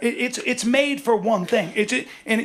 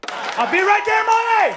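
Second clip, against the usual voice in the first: high shouted call across the room; 13 semitones higher, 4 dB louder than usual. Acted. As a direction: yell it out to him. Heckler calls out mid-scene.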